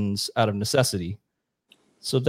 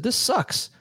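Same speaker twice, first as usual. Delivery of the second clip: higher pitched mock complaint from a farmer; fed-up farmer; 4 semitones higher than usual. Collectivized Vietnamese farmers grumbling about shipped-off rice, mock whine, higher. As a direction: whine it like a worker sick of giving away his rice. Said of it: "and they said".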